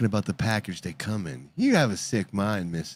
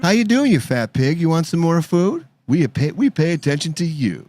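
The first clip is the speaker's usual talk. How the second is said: mock friendly server; 4 semitones higher, 4 dB louder than usual. Mocking training video dub.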